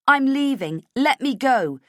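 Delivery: high, loud plea to be let go; desperate demand. Acted. Heroine held by guard, loud and high. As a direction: force it out in panic.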